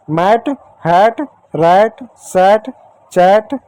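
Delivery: मैट, हैट, रैट, सैट, चैट spaced out with open "ae" and rising tune; short-a word drill. Shown as a demonstration. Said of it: "ए का उच्चारण ए की मात्रा". (मैट, हैट, रैट, सैट, चैट को ऐ की मात्रा से अलग-अलग बोलें)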